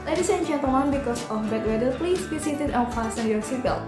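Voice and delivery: cabin PA announcement voice; flight attendant. Shown as a demonstration. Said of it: "announcement-nya kalau terjadi turbulence tuh kayak gini".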